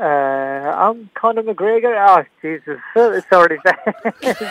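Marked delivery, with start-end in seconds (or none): 0.0-1.9 halting, slow attempt at an Irish accent; bad Conor McGregor impression. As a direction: botch an Irish fighter's accent, dragging it out. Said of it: "do your best Conor McGregor impersonation".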